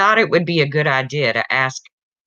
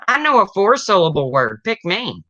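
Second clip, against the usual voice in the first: put-on eager kid; 5 semitones higher, 3 dB louder than usual. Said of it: "Johnny says".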